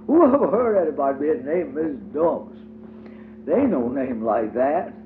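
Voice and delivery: high little girl's voice, playing hostess; child voice for Diddy. A narrator's reading. Diddy greets her playmate at the door, high childlike voice. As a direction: lift into a small girl's prim voice.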